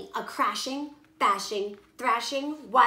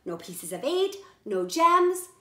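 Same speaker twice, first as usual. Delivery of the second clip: wailing lament; 6 semitones higher, 5 dB louder than usual. Acted. Captain laments losses.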